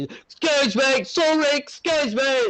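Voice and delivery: high, hurried pleading crewmate voice; fussy servant excusing himself; polite crewmate. Acted. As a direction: squeeze past people with high apologies. Crewmate pushing through crowd.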